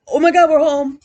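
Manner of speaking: loud, high "oh my God, we're home"; excited shout. Retold or imitated. Dogs cheering as the Jeep pulls up, loud and high. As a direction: yell it like arriving home at last. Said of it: "the block is like".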